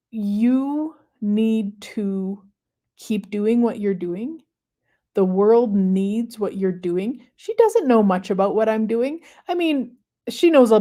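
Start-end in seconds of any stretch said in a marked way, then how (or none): 0.1-7.3 slow, earnest quote. Retold or imitated. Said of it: "she said".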